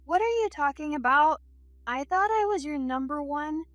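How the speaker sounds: high-pitched woman pleading. Acted. Spurned lover clings to Jack's arm, pleading.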